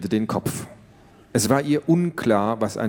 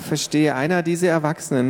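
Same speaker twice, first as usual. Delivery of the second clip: mutter; 6 semitones higher than usual. Acted. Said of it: "murmelte Tiffany".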